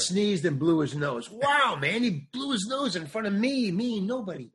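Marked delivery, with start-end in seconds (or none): 1.3-4.5 starstruck awe. Retold or imitated. Imitating his own starstruck awe.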